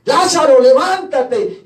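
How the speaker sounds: grito de mando imitado. Retold or imitated. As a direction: call out again to rouse him, command drawn out slowly. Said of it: "y gritó". (grito de mando repetido y alargado)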